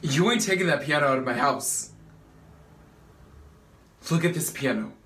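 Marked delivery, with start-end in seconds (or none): 0.0-1.9 raised voice, putting your foot down; firm, heated objection; defiant refusal. Acted. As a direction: refuse loudly, no room for argument. Acted quarrel over piano.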